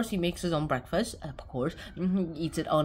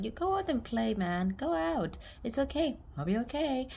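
soft, lightly raised motherly voice; mild acted reassurance; reassuring mom; 6 semitones higher, 5 dB quieter than usual. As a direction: gently shoo the child out to play. Retold sick mom sending boy out.

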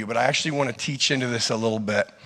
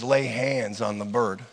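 inner voice command; 4 semitones lower, 6 dB quieter than usual. Retold or imitated. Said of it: "And the bird says".

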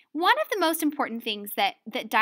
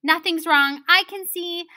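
raised voice, higher and louder; loud stage reply; 5 semitones higher, 6 dB louder than usual. Acted. Student answering Belinda in the play rehearsal, loud and high. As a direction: answer back loudly, pitched up.

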